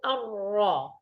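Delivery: الراء made in the middle of the palate; back, heavy الراء; teacher showing the wrong r. Shown as a demonstration. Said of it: "لا تقل".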